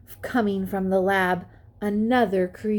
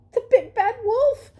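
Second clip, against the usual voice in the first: much higher, tense; scared scientist pig; 4 dB louder than usual. A narrator's reading. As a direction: blurt it out in fear. Frightened scientist explains.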